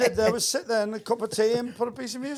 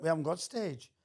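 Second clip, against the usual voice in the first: softer, lower Welsh mimicry; Welsh accent; 4 semitones lower, 9 dB quieter than usual. Club local answering the visiting comedian, soft Welsh accent. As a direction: quietly imitate a Welsh local. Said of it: "I always use Welsh accent".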